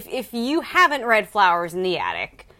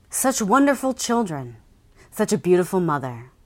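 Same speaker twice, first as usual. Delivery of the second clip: dramatic blurb reading. Acted. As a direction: read it like a thriller trailer. Reads book blurb dramatically.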